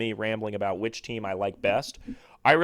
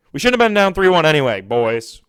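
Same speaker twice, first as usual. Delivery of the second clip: exasperated outburst; 5 semitones higher, 11 dB louder than usual. Real, not acted. Fan venting about playoff deficit.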